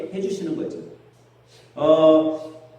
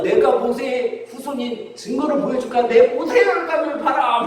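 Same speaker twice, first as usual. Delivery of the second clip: high-pitched mock boasting, climbing higher; boastful drunkard; 7 semitones higher than usual. Drunk shows off his capillaries as proof, boastful shouting. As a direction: act out a drunk's triumphant proof. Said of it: "이번에는 뭐라고 소리치냐면".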